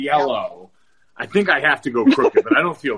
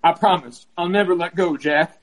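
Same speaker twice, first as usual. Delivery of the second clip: put-on lightly raised girly voice; a hint of a South Park girl; 3 semitones higher than usual. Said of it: "That's how I talk like a girl".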